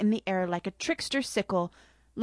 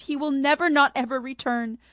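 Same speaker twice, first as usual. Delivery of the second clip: sobbing lament; 3 semitones higher than usual. Acted. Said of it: "the Cheshire monkey sobbed".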